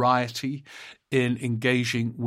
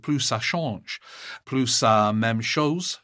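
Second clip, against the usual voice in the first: amateur French accent on a French saying; slow, careful French accent on plus ça même chose; English speaker trying a French accent; slower than usual. Real, not acted. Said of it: "Excuse my French accent".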